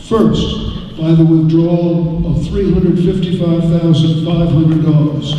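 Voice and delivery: measured formal reading of a warrant article. Real, not acted. Moderator reading the amendment to the town meeting, measured and formal. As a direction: read it out like an official motion.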